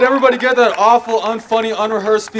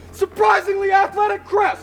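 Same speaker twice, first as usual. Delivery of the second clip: announcer shout; 12 semitones higher than usual. Acted. Announcing again, loud and high.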